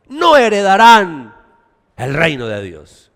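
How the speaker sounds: slow, loud declaration; emphatic warning. Acted. Preacher warning the church, loud and slow. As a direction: hammer it home.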